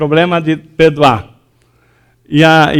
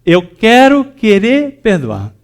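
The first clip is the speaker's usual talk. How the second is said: "eu quero querer perdoar" slow, stress on "quero"; slow emphatic phrase; 4 semitones higher, slower than usual. Shown as a demonstration. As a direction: lean on "quero" and draw it out. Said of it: "fala assim, ó". (lento, ênfase em "quero")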